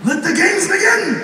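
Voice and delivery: high, drawn-out proclamation; gleeful announcement. Acted. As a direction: announce it like opening a tournament. Announces the start of his prank.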